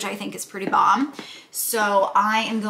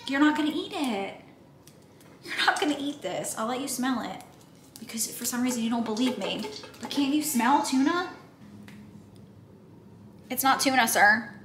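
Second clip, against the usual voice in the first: pet talk; 3 semitones higher than usual. Real, not acted. Teasing her cat Brogan.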